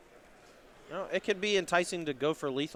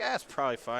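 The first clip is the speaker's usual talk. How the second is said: put-on Southern accent; 3 semitones lower, faster than usual. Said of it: "in a very thick Southern accent".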